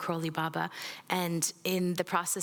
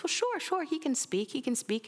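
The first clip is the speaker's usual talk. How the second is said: guru's voice; 8 semitones higher than usual. Retold or imitated. Guru voiced in retold story.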